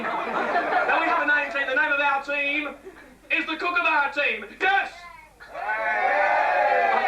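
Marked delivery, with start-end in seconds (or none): 1.7-4.9 rallying cheer. Real, not acted. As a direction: whip the crowd up. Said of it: "rallying the crowd".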